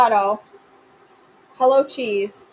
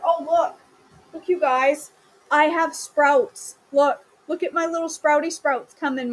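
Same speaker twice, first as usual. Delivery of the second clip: excited; 3 semitones higher than usual. Real, not acted. Showing off her sprouts.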